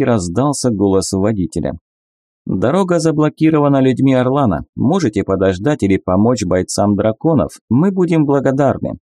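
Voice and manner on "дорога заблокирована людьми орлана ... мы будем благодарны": higher voice coming through car speakers; driver over speakers. Acted. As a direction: announce it like a driver on an intercom.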